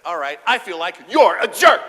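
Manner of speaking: loud, blunt jab; blunt retort. Retold or imitated. Wife told to use an I statement, bluntly loud. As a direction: blurt it out bluntly. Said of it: "and she said".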